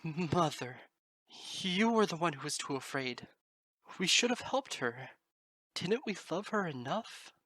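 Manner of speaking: high, slow, through clenched teeth; bitter stammer. Acted. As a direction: grind out the accusation slowly. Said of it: "hissed through clenched teeth and stammered".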